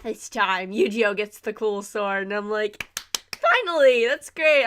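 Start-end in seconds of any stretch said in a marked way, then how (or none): 3.4-4.6 excited. Retold or imitated. Eugeo finally gets the sword.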